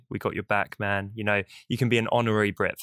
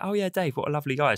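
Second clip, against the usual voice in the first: imitated fond praise; 5 semitones higher, faster than usual. Voices people praising the guest.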